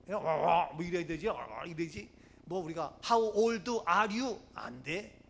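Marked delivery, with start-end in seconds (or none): 3.0-4.4 very slow, stretched-out imitation of native American English; mock American accent. Shown as a demonstration. Preacher demonstrating native American pronunciation, slow mock American accent. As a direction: drag out How old are you like a native. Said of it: "본토 발음".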